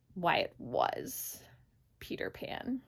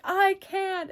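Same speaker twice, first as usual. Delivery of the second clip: high, loud overplayed cry; mock wail; 10 semitones higher, 6 dB louder than usual. Peter answering Wendy in a high loud wail. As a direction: wail it, hammed-up. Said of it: "And then Peter's like".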